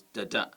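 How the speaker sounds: "da-da" with weak first, stressed second; iambic beat. Shown as a demonstration. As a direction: tap out "da-da" as da-DA. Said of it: "unstressed followed by stressed syllables".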